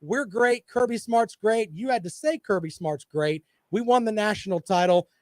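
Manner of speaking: co-host bragging about Georgia, mock voice. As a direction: mimic a smug fan's brag. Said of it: "just tell me".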